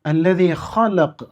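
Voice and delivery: slow recitation with a crisp qaf at the end of ഖലഖ്; clear qaf. Shown as a demonstration. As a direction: land firmly on the qaf in ഖലഖ്. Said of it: "വ്യക്തമായി ഉച്ചരിക്കണം".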